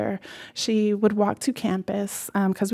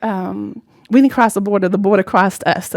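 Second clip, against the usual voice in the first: proud grandmother; 6 dB louder than usual. Retold or imitated. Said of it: "but she was like".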